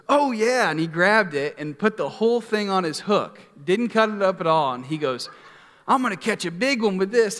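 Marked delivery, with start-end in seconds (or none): 0.1-0.7 loud, high, eager mock outburst; animated California dude. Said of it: "you know, very animated". 5.9-7.4 animated, higher imitation of a California dude; Eldon. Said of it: "you know, very animated".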